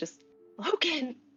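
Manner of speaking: whispering desperately. Playing Rose calling out for her oldest brother Logan; desperate whisper. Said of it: "like a desperate whisper".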